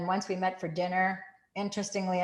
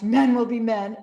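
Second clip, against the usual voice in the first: louder, laughing wry remark; 4 semitones higher, 7 dB louder than usual. Retold or imitated. Girls laugh it off.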